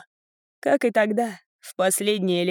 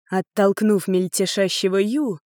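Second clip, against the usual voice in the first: usual speaking voice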